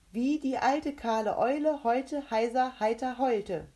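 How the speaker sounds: high, loud tongue-twister challenge; challenger's character voice. A narrator's reading. Rebecca sets the mouth a tongue twister, high and loud. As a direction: pitch it up and enunciate clearly.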